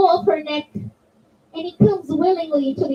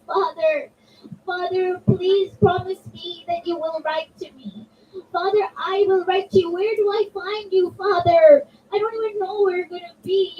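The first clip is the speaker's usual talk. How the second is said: put-on higher-pitched, lightly tearful child begging; mild tearful pleading; 4 semitones higher than usual. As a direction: plead like a little girl watching the caravan leave, understated. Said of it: "Sugra cried so much".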